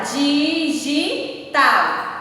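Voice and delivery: "digital" slowly split di, gi, tal; syllable by syllable. Shown as a demonstration. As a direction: draw out each syllable of "digital". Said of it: "separar as sílabas". ("digital" bem devagar, sílaba por sílaba)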